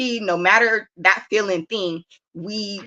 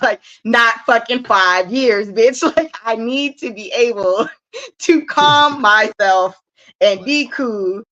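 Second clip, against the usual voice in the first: laughing, slow and higher; laughing rant; 4 semitones higher, 4 dB louder, slower than usual. Real, not acted. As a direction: laugh through the punchline.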